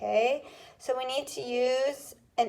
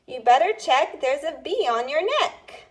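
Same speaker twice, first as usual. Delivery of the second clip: dictation read; 4 semitones higher, 4 dB louder than usual. Shown as a demonstration. Teacher reading a dictation rhyme to students, clear. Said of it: "What is the final rhyming word".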